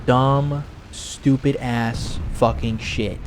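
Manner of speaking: slow, weighty scorn; drawn-out disdain. Real, not acted. Streamer marvelling at what these people say, slow disdain. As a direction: dwell on each word, slowly.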